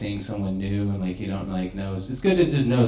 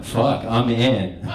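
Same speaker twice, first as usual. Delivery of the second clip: laughing; much slower than usual. Real, not acted. Retold moment of success.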